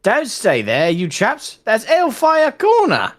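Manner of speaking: warning cry. Retold or imitated. A voice warning soldiers off the corner, calling out. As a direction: call out a warning to the men, rising. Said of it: "a voice in the darkness cried".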